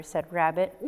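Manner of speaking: plain reading voice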